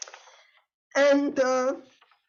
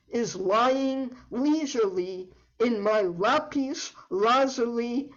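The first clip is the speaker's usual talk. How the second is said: cheeky, playful recitation; alliterative verse. Acted. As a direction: tease the listeners with L words. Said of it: "I am going to read an alliterative poem".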